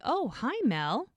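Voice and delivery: put-on high, drawn-out hello to a child; lightly voiced nurse, slow and lilting; sing-song retold greeting; friendly nurse greeting. Nurse greeting a little girl.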